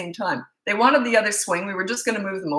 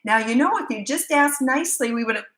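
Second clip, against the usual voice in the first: mocking other mom; 5 semitones higher than usual. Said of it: "started talking to him about the whole tantrum".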